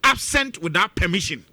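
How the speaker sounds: "Absent without permission" leaned on, each word weighted; emphasis. Shown as a demonstration. Host repeating the charge against MPs, pressing "Absent without permission". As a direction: press "Absent" and "permission" firmly, falling to a close. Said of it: "Emphasis mine".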